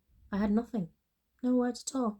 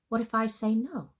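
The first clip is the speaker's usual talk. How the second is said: sputtered; 5 semitones higher, 5 dB louder than usual. A narrator's reading. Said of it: "I sputtered".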